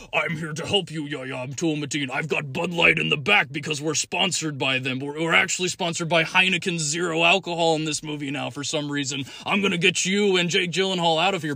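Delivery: a light heroic robot leader; Optimus Prime voice. Retold or imitated. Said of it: "I wanted him to show up and be like".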